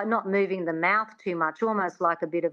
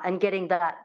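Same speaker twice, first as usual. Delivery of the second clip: ordinary talk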